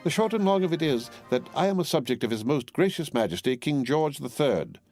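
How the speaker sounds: proudly declaiming God save the king; emphatic loyalty. A narrator's reading. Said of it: "nodding her head emphatically".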